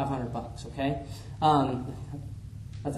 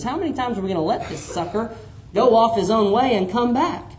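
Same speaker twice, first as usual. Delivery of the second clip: Peter's exasperated question; 2 semitones higher, 3 dB louder than usual. Acted. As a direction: play Peter fed up with forgiving again. Peter voiced questioning Jesus.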